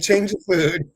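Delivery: mock Italian, punch "Change"; Italian accent. Host quotes the animal communicator in mock Italian. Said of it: "you were talking in that Italian voice".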